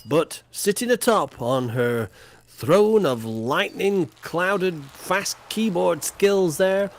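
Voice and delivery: mock-regal results announcement; a lightly hammed-up prize-giving voice; grand announcer. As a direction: announce the winners like a royal herald.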